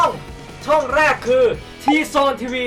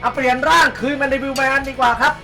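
loud announcement; 3 semitones higher, 3 dB louder than usual. Acted. Announcing a character switch.

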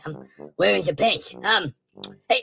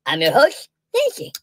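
first host; 2 semitones higher than usual. Acted. Two hosts both named Nancy.

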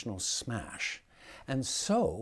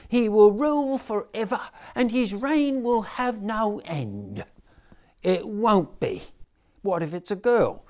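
put-on much higher, louder child voices; children's nativity voices; 8 semitones higher, 7 dB louder than usual. A narrator's reading. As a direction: play the squabbling Mary and angel. Nativity dialogue continues.

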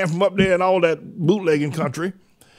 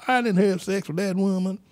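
a hint of a president's voice, higher than usual; Bill Clinton; 5 semitones higher, 4 dB quieter than usual. Host quoting a former president's famous denial, light impression. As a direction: lightly imitate a politician's denial, slightly raised pitch. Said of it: "what's his name, Bill".

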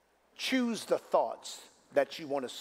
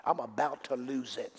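quieter, lower, weary mock complaint; mock worldly complaint; 4 semitones lower, 4 dB quieter than usual. Preacher mocks the congregation's defeated talk, softly weary. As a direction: sigh it out like a defeated person. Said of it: "Stop saying things that the world says".

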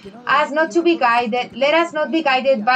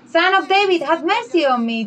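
raised begging call; pleading shout; 5 semitones higher than usual. Retold or imitated. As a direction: shout it to be heard over the crowd. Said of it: "and he shouted".

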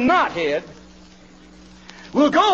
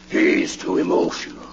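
whisper. Real, not acted. Refrain whispered.

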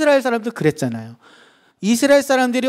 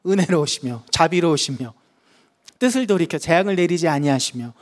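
reading without emotion; 3 semitones lower than usual. Shown as a demonstration. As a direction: read it gently, as praise. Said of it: "감정 없이 읽으면".

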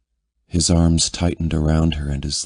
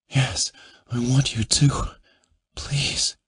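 pleading woman; 8 semitones higher than usual. Acted. Heroine begs her lover.

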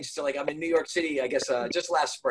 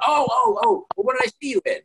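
much higher, fast, eager questions; excited fan; 11 semitones higher, 6 dB louder than usual. Retold or imitated. Airport stranger asks the actor what he was in, high and fast. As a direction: gush like a fan who can't place him. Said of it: "they'll be like".

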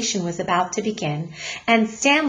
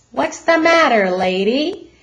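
policeman; 4 semitones higher, 5 dB louder than usual. Acted. Policeman questions the mother.

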